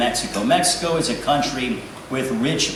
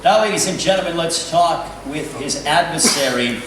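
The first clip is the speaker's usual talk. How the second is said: ring announcer; 2 semitones higher than usual. Acted. Ring announcer introducing a fighter.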